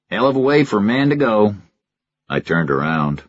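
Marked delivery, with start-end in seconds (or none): 0.1-1.6 Stockton voice. A narrator's reading. Stockton remarks.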